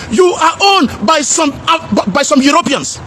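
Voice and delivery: slow, insistent near-shout; slow emphatic shout. Real, not acted. Emphatic rant about being owned.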